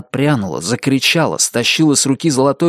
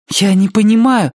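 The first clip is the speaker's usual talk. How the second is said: high, loud, scared protest; frightened; 10 semitones higher, 5 dB louder than usual. Acted. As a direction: cry it out in alarm. Frightened girl pleads. (испуганно)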